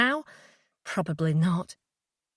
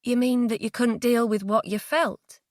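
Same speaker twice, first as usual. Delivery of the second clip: gentle; 3 semitones higher than usual. Acted. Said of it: "I spoke gently".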